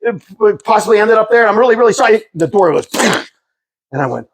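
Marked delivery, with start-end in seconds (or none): 0.1-2.2 higher, apologetic babbling; nervous fast talk. Retold or imitated. Neighbor asking a drug dealer for his cans, nervous apology. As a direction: keep babbling so he won't shoot. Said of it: "I better talk fast".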